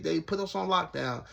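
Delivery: ordinary talk, nothing marked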